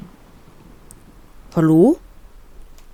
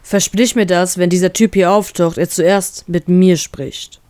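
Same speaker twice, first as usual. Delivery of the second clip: serious. Acted. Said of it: "meint mein Bruder ernst".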